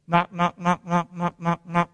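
steady, even run of knocks on one pitch; repeated knocking. Acted. Preacher imitating Jesus persistently at the door, repeated knocking. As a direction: say knock over and over, evenly. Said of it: "That's what he's doing".

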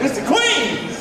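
high, laughing oh no; laughing mock alarm. Preacher voicing the startled people, laughing and high.

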